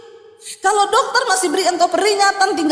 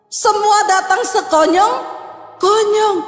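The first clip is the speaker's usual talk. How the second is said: slow emphatic phrase; 5 semitones higher, much slower than usual. Acted. Preacher drives point home.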